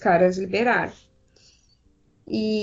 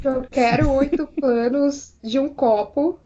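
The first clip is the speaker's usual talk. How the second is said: slow, deliberate mock demand; stubborn insistence; 3 semitones higher, slower than usual. Director refusing to cut any shots, mock stubborn. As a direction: spell it out like an obstinate director.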